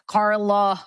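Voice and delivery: lightly imitated "Carla", stretched out evenly; imitating co-host. Guest replaying the name from her head, imitating co-host. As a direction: draw out "Carla" in a hint of his voice. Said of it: "when he says it in my head".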